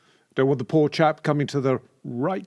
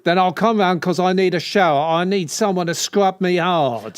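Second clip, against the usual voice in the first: louder, pushed-out suggestive builder; 3 semitones higher, 5 dB louder than usual. Pretend. Builder inviting himself round to a client, suggestive. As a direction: play a builder angling for a shower. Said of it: "builder not doing it for you".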